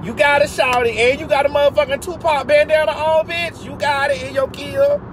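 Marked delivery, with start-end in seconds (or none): 0.0-1.0 laughing mock taunt; high, laughing you got it. Real, not acted. Laughing at other driver. 3.6-5.0 very high squeal. Real, not acted.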